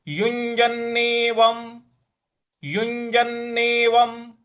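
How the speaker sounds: युञ्जन्नेवं ending in a clear m sound; slow teaching take of युञ्जन्नेवं; pronunciation demo. Shown as a demonstration. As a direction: end युञ्जन्नेवं with a closed m, yunjannevam. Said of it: "अनुस्वार है उसको म के उच्चारण में ले आना है।".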